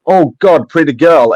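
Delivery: mock admiring reaction. Stranger reacting before hearing the speaker talk, mock admiring. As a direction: act out a first glance. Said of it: "when people have a reaction".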